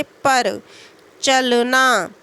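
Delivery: पर and चलना said deliberately, weight on the opening syllable; stress on preceding syllable. Shown as a demonstration. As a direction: lean on प in पर and च in चलना. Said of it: "पूर्ववर्ती अक्षर पर जोर दिया जाए". (पर और चलना के पहले अक्षर पर जोर)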